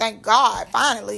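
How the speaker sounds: plain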